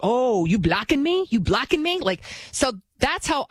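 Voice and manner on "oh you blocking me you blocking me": higher, indignant mock challenge; retold maternal outrage, rising at the end; upset mom. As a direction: imitate an affronted mother demanding an answer. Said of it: "got upset with me".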